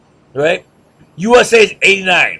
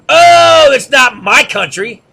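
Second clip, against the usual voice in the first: mock indignant; 4 semitones higher, 4 dB louder, slower than usual. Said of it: "mock reply of patriots".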